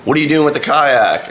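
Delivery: high-pitched mock yell, held back; retold distant shout, not full volume; imitated scream. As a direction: call out like someone hollering from a rooftop. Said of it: "He's screaming".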